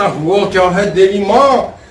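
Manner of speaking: drawn-out mock-pious plea; husband mockingly pleading with wife as goddess, slow; slow mock reverence. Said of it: "बंदा कहता".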